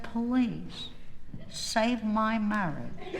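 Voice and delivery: drawn-out comic plea; mock begging. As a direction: plead slowly, milking every word. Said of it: "I begged them".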